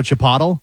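"Chipotle" as chi-POT-ul; mispronunciation. Retold or imitated. Dad teasing his kids about lunch, mispronounced. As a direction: make "Chipotle" rhyme with bottle. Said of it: "I say Chipotle".

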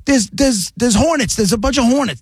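high, stammering mock panic; retold frantic cry; imitated freaking out. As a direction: play a panicked wife, pitched high. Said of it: "like freaking".

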